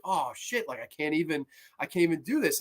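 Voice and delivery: dismayed. Retold or imitated. Prostitute's quiet dismay.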